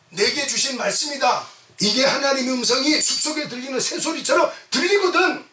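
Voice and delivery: animated pulpit exclaiming; impassioned preaching. Real, not acted. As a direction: press the congregation hard. Preaches at full force.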